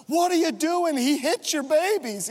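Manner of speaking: hammed-up shocked scolding; outraged stranger. Stranger scolds dad loading kids, mock outrage. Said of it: "she goes".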